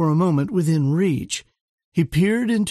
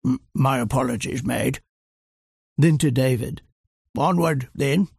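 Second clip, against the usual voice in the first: flustered Churchill; 3 semitones lower than usual. A narrator's reading. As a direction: caught out, fumble the words. Churchill apologising nervously.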